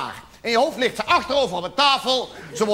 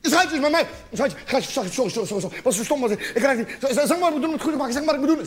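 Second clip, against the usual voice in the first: frantic apologising; faster than usual. Acted. Panicked phone apology to girlfriend.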